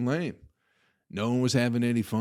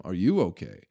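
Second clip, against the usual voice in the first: mocking echo; 4 dB louder than usual. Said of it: "What the fuck you asking me".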